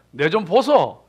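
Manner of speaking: blunt Gyeongsang dialect call; light mock Gyeongsang accent. Shown as a demonstration. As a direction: call someone over the Gyeongsang way. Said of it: "경상도 사람들은".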